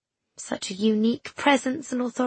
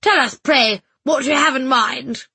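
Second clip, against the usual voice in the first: louder, slow and cutting; icy sarcasm; 4 semitones higher, 6 dB louder than usual. A narrator's reading. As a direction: sneer it out coldly. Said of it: "Missus B snapped".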